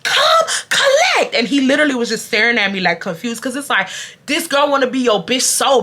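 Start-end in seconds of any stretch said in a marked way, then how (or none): 0.0-1.3 high, slow drawn-out yell; high slow call telling Romeo to come collect. Retold or imitated. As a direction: stretch each word across the classroom. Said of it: "the way I said".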